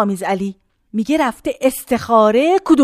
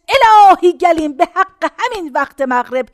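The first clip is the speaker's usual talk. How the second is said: fervent blessing; 3 semitones higher, 4 dB louder than usual. Retold or imitated. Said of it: "زد به سینش".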